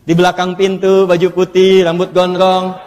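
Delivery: mock devil whisper. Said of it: "dibisikin sama dia".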